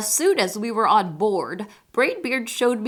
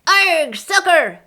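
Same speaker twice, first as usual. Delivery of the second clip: high, slow gleeful chant; much higher rowdy crew taunt; crew yell; 9 semitones higher, 5 dB louder, slower than usual. Acted. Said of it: "the crew yelled".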